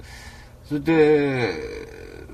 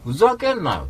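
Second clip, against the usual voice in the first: raised, heated snap; retold angry retort; 5 semitones higher than usual. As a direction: spit it out angrily. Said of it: "つって言って".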